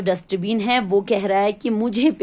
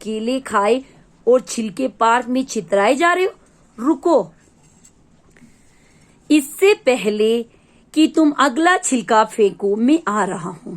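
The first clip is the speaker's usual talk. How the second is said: louder call to stop Monu; dustbin shouting; 3 dB louder than usual. Acted. Dustbin shouting at Monu to stop littering in the park.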